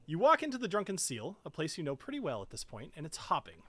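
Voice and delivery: measured tavern narration; storyteller introducing a place; game master's scene setting. Acted. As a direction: set the scene for the players.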